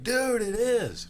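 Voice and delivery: high, slow, stunned exclamation; dad finding the snake at face height, stunned and high; shocked. Retold or imitated. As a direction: drag it out in disbelief.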